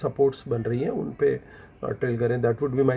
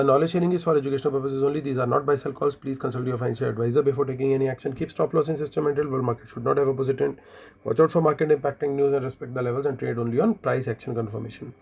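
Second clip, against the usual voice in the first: disclaimer read; much slower than usual. Acted. Reads the standard disclaimer fast.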